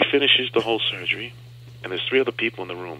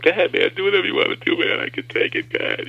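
higher, louder defiant call; tough bravado; 7 semitones higher, 4 dB louder than usual. Retold or imitated. Patient daring the doctor to continue, loud bravado. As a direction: dare him to go on, gritting through it.

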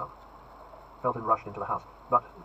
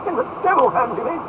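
high, loud retort short of calling out; ringing, indignant question; raised voice; 13 semitones higher, 10 dB louder than usual. Acted. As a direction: raise your voice to be overheard. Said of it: "elevating his voice so as to attract the attention".

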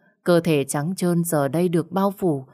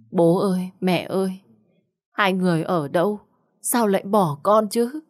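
crying out in tears; 3 semitones higher than usual. Acted. Abandoned bride calling for her parents, crying. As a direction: cry out to the absent parents in despair. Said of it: "Trong nước mắt, Lượm kêu lên".

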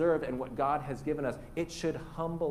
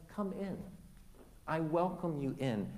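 soft, tender invitation; merciful, hushed reassurance; gentle welcome; 7 dB quieter than usual. Acted. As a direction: welcome them in quietly and kindly. Voicing God's merciful welcome.

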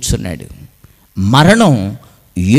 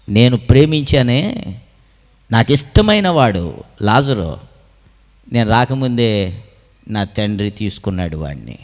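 subdued grief; 3 semitones lower than usual. Acted. Jesus mourns the friend he loved, low and grieving.

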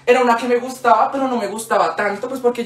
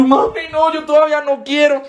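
higher-pitched pleading refusal; mock child protest; 5 semitones higher than usual. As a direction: act out a kid objecting to mom. Acting out childhood protest to mom.

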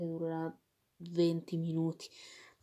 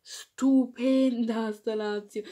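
louder burst of admiration; excited praise; 2 semitones higher, 6 dB louder than usual. Real, not acted. Fan praising his team after the derby, excited burst.

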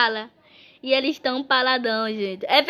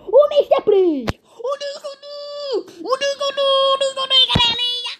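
excited calling out; 9 semitones higher than usual. Real, not acted. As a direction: call out their names, thrilled. Excited calling out game characters. (chamando empolgado)

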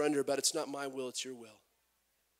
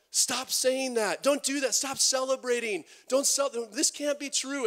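indignant Pharisees; 8 semitones higher, 4 dB louder than usual. Retold or imitated. Pharisees scolding the cheering crowd, high and loud in outrage. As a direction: shout them down, scandalised and outraged. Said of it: "the Pharisees are like".

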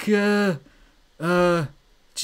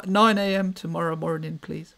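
meek, soft, lower voice; Shimmy; 4 semitones lower, 5 dB quieter than usual. Pretend. Shimmy books a fight with Barry, meek and quiet. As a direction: set the fight politely, tailing off quietly. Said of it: "Shimizu, Shimmy".

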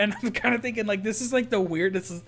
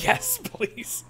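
much higher, eager little yes please; eager pizza guy. Retold or imitated. Teller imitates the pizza guy wanting his pizza, much higher and eager. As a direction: pitch way up to play the grateful delivery guy.

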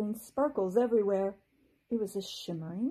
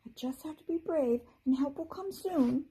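tiny voice; 7 semitones higher than usual. A narrator's reading. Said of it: "said a tiny voice".

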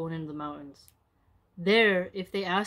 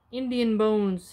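slow, louder call across the ground; 2 semitones higher, 6 dB louder, slower than usual. Acted. Kamush announcing the bones to the upper world, called out. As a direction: call it out to the land ahead. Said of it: "he called out".

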